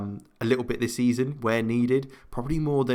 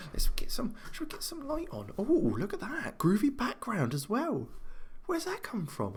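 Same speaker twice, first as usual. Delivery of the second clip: excited; 12 semitones higher, 5 dB quieter than usual. Real, not acted. Excited by new lighting.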